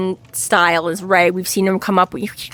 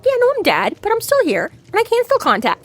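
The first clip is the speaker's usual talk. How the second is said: imitating the father; 13 semitones higher, faster than usual. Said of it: "he's like".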